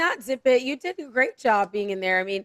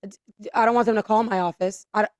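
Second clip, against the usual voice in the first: mock-nervous stammer on sentence starts; flustered dread, imitated. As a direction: imitate a rattled official stumbling over words. Voicing congressmen dreading the moms.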